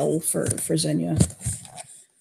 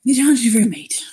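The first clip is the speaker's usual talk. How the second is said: gritted whisper; 3 semitones higher, faster than usual. Acted. Gritted teeth, biting tongue.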